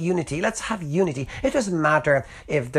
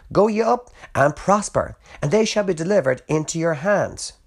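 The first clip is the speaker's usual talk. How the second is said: high, mock-cheerful promise of victory; sarcastic; 5 semitones higher, 3 dB louder than usual. Prophet mocking the king about battle, sarcastic. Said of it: "saying this in a sarcastic tone".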